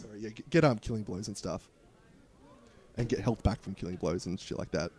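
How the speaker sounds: talking through a choke on beer; choking on a drink. Real, not acted. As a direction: voice catching after choking. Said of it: "I'm fucking choking here".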